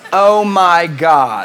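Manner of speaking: slow, drawn-out American "Oh my God" with a laugh; dramatic American accent drill; American accent warm-up. Shown as a demonstration. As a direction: stretch out "Oh my God" like a gushing American. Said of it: "I always have to just go".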